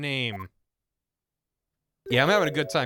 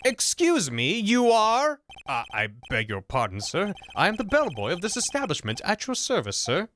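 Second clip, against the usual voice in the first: a hint of a prim hotel bellboy, polite and proper; stuffy bellboy voice. Bellboy politely greeting the lawyer in the hotel room, prim and formal. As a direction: play the bellboy with stiff courtesy.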